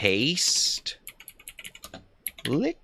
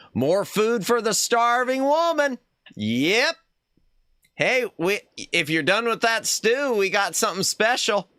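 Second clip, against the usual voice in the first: starving woman voice; 12 semitones higher, 3 dB louder than usual. Acted. Voicing starving woman in story.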